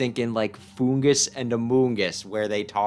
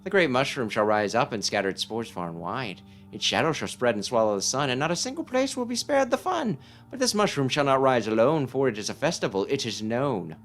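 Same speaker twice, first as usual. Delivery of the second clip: put-on eccentric old sage prophecy; 3 semitones higher than usual. Sage reciting the mushroom prophecy to the boy, theatrical. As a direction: intone the rhyme like a batty oracle.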